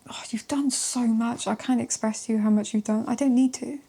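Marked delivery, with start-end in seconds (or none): 0.1-1.5 whisper. Real, not acted. Emotional tarot reading aside.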